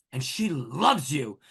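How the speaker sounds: "loves" drawn out slowly; stretched, weighty "loves"; emphatic LOVES. Retold or imitated. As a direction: lean long on "loves", imitating how she said it. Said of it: "And she said it like that".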